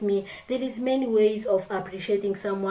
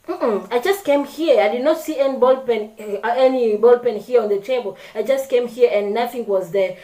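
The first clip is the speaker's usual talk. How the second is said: rude tone; 2 semitones higher, 3 dB louder than usual. Shown as a demonstration. Answering a classmate rudely, annoyed snappy tone. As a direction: brush off a classmate asking about the pen. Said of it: "if I'm not someone who does not pay attention to my tone".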